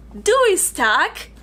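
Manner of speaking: put-on title said slowly in a German accent. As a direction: say the name like a German speaker. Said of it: "like, a German accent".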